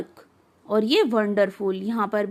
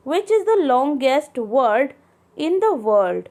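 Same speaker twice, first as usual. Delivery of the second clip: very slow, word by word; slow textbook reading; 4 dB louder, much slower than usual. Acted. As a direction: read it out slowly for the class. Reads the riddle. (धीमे-धीमे पाठ पढ़ना)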